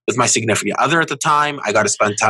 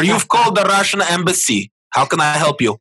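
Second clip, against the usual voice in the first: mock Russian embassy receptionist accent; a light put-on Russian accent; 5 semitones higher than usual. Pretend embassy answering scam caller, light Russian accent. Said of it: "In your most deep, uh, Russian accent".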